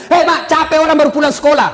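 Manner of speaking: rude shout at mother. Retold or imitated. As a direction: yell back at mother rudely. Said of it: "sama orang tuanya kurang ajar". (membentak ibu dengan kasar dan keras)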